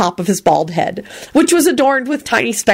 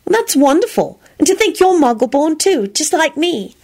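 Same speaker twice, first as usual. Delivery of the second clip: higher-pitched motherly delight; maternal; 9 semitones higher than usual. A narrator's reading. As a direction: coo it like a fond mother. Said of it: "smiled down at him in a maternal fashion".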